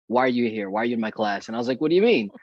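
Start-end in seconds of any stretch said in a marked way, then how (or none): 0.1-1.5 deadpan, matter-of-fact teacher; retold straight-faced questioning. Teacher confronting a student who wants out, straight-faced. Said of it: "looked at me with a straight face". 1.8-2.3 higher, louder baffled question; retold puzzlement. Student answering the teacher's odd question, puzzled.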